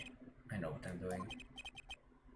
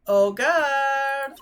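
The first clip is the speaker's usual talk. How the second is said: much higher and louder call; 11 semitones higher, 6 dB louder than usual. Acted. Lawyer calling the guard over, high and loud. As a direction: call across the room to the guard.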